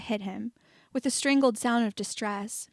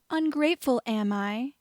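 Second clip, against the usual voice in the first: sarcastic echo; 2 semitones higher than usual. Acted. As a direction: throw the word back with contempt. Malfoy echoes the insult.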